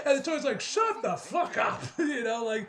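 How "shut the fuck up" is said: slow, raised-pitch mock anger; imitating an exasperated comeback; mock fed-up retort. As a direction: drag out each word like you've had enough. Imitates fed-up Tony snapping back.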